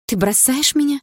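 high, rising shocked question; stunned, hurt girlfriend; disbelieving question. A narrator's reading. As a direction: ask in high-pitched disbelief. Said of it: "не веря своим ушам".

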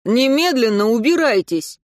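loud, angry bark; barked shout. Acted. Anton loses his temper and barks at Katya, loud. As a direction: snap at them to get out. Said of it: "гаркнул".

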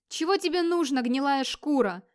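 heated insult, slowing at the end; angry challenge. Acted. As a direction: shout it furiously down at an enemy. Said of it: "Вигмар злился".

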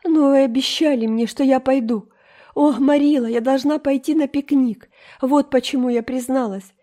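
put-on high, loud, pleading girl; desperate pleading. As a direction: beg as if everything depends on it. Энн умоляет Марилу. (Энн в отчаянии умоляет Марилу отпустить её)

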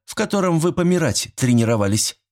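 each word rapped out crisply; clipped out. A narrator's reading. Nurse answering the old neighbour, crisp and pointed. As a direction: bite off every syllable. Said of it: "отчеканила Зинаида".

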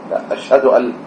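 ordinary talk

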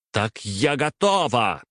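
выше и медленно, почти срываясь на крик; почти кричать. A narrator's reading. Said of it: "Варвара уже практически кричала". (дочь почти кричит на отца)

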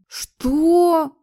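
high, outraged yelp; shocked and offended, jumping up high; high outraged disbelief; outraged what. A narrator's reading. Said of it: "Моему возмущению не было предела".

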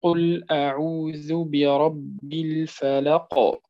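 slow chanted recitation, the final qalqala on الفلق bounced; Quranic recitation. Shown as a demonstration. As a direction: chant it slowly like tajweed, echoing the final ق. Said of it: "مثال قوله تعالى". (ترتيل بطيء مع قلقلة القاف في الفلق)

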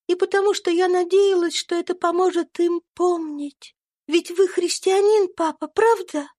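put-on kind little girl comforting a friend; gentle young girl. A narrator's reading. Little Eva gives Topsy a lock of hair, high and kind.

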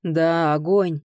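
lightly voiced big man's reply; firm confirmation with falling pitch; booming bass answer. A narrator's reading. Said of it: "пробасил сзади Роден". (слегка басовито, утвердительно)

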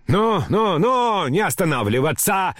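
high, impatient calling out; crying out. A narrator's reading. Grandmother urging her escort not to stop, crying out impatiently. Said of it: "кричала бабушка".

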